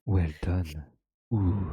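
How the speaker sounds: put-on low French-accented praise. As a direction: purr it like a French host. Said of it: "give it a French accent".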